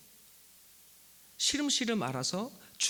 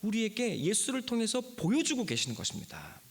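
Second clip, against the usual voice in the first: fervent preaching; 8 semitones higher than usual. Real, not acted. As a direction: preach it high and insistent, stretching the key words. Preacher proclaims the sermon's message. (높은 음으로 힘주어 선포하는 설교)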